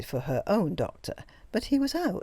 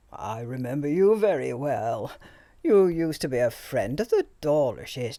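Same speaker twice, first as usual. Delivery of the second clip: put-on jovial old doctor; 3 semitones lower than usual. A narrator's reading. The old doctor greeting Greta, jovial and hearty. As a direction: boom out the greeting with fussy cheer.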